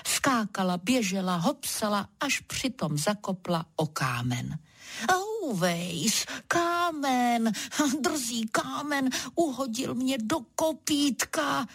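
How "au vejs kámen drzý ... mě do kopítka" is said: a touch higher, mild ouch; exclaiming. Acted. Clumsy zebra trips on a stone, mild pained exclaim. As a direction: cry out at a stubbed hoof. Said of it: "zvolala nemotorná zebra".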